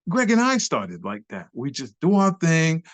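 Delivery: impressed onlooker. Retold or imitated. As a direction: exclaim as an impressed elder dancer. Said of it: "And he was like".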